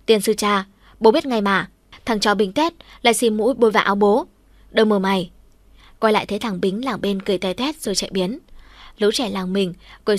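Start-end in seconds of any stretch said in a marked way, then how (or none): 0.1-5.3 cursing yell, mildly louder; angry yell. Acted. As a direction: curse the snot-wiping kid. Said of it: "thằng Lực hét ầm lên". (Lực hét chửi bực bội)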